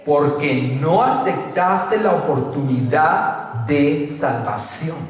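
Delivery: ordinary talk, nothing marked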